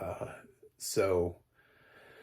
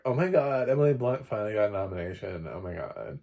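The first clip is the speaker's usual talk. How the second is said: quick mock fan rush, louder; gushing fan; 5 dB louder than usual. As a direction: tease the excited crowd.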